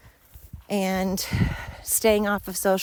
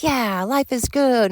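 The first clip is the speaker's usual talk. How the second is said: higher, drawn-out cheer; happy self; 6 semitones higher, 4 dB louder, slower than usual. Retold or imitated. Telling how she catches herself being happy, dreamy cheer. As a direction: stretch it out in blissful contentment. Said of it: "And I'll be like".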